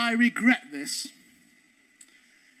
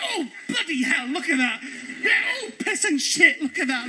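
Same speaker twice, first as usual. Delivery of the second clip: mock fright; 3 semitones higher than usual. Mocking fake fright.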